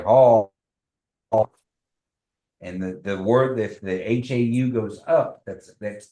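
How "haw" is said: Haw louder with the vowel dropping; falling tone. Shown as a demonstration. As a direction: say Haw firmly with a falling pitch. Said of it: "you wanna say".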